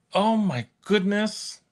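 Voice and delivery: a hint of a sweet grandma. Real, not acted. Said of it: "why do I sound like a grandma?".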